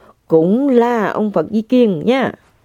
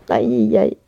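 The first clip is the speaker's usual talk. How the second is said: usual speaking voice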